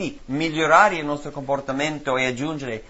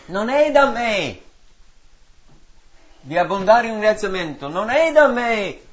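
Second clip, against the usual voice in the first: mock excuse; 7 semitones higher, 6 dB louder than usual. Voicing believers' excuses.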